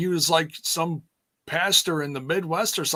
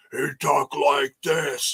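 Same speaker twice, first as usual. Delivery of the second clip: put-on broken-English Russian accent, slow; imitated Russian accent, words dragged out; Nikita Koloff; 2 semitones lower, slower than usual. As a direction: do a slow mock Russian wrestler voice. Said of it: "he did a broken English Russian voice".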